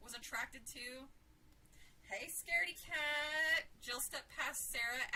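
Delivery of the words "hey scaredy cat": loud, drawn-out playful taunt; loud teasing greeting. A narrator's reading. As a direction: call it out slowly and higher to tease. Teasing a scared friend on arrival.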